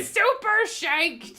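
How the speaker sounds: mock-dramatic long yell; drawn-out exclaim. Real, not acted. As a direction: stretch super shanked out slowly and loudly. Echoing partner's outburst.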